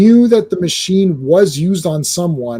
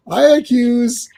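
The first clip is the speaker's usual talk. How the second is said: high-pitched mock declaration; hammed-up courtroom-style accusing; dramatic accusation; 8 semitones higher, slower than usual. Blue Eagle accusing Golden Archer, theatrically dramatic.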